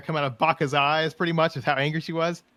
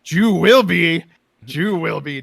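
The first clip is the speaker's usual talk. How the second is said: menacing troll; 3 semitones higher, 9 dB louder, slower than usual. Retold or imitated. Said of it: "And Gormal's like".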